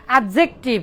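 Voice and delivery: অ্যাডজেক্টিভ with the d sounded before the j; common mispronunciation. Shown as a demonstration. Teacher quoting what everyone says, অ্যাডজেক্টিভ with a sounded d. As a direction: say অ্যাডজেক্টিভ as "ad-jek-tiv", d pronounced. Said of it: "এটা মূলত ভুল".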